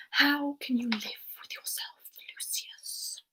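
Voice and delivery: soft, acted half-whisper; hushed reproach. Acted reproach in a film quote.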